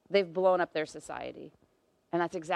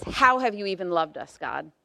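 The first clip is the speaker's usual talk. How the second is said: put-on sassy teenager; 3 dB louder than usual. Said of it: "hearing it in a teenage voice".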